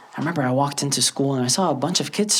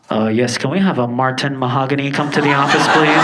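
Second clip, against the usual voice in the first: lightly voiced school intercom, louder on "please"; intercom announcement; 4 dB louder than usual. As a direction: make a level office announcement over the intercom. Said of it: "when the intercom comes on".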